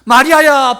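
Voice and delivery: high, loud call of a name; ringing call, falling at the end; Jesus. Acted. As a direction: call her by name at full voice. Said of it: "평소에 나를 부르던 그 목소리인데".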